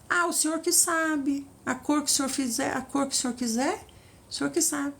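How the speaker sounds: mild, limp, resigned whine; passive bride. Pretend. Passive bride deferring to the Lord, mild whine. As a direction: hand every decision back, meekly. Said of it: "O Senhor não gosta de noiva passiva".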